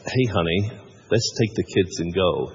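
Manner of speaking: low-pitched, hammy American movie dad; bad American accent. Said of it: "that's a terrible attempt at an accent".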